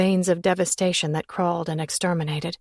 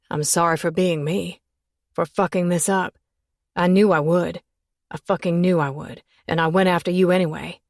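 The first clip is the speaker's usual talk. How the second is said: bitter; 3 dB louder than usual. Acted. Man's self-loathing outburst.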